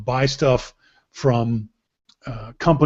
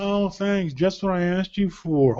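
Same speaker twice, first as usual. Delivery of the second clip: mock-grateful, softer and let down; sarcastic thanks; 4 semitones higher, 4 dB quieter than usual. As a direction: say it like a disappointed wife, dryly. Voicing wife's sarcastic thanks.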